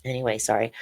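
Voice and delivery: apologizing while emotional; real, contained emotion; getting emotional. Real, not acted. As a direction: pull back from real upset to apologize. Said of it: "You're getting emotional".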